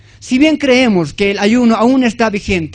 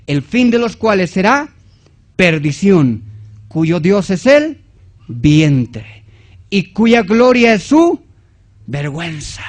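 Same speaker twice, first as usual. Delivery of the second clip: measured verse, pausing before each key word; deliberate scripture reading. Acted. Reads verse with pauses.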